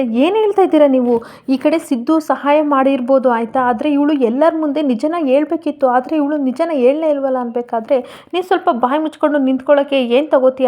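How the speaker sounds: a touch of a scolding grandfather; mild scolding. Acted. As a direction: scold lightly, understated anger. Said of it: "ಅಂತ ಬೈತಾ ಇರ್ತಾನೆ". (ಸ್ವಲ್ಪ ಬೈಯುವ ಧ್ವನಿ)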